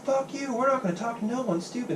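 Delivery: high, mocking protester snarl; a lightly hammed-up hostile protester. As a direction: sneer it like a caricatured protester.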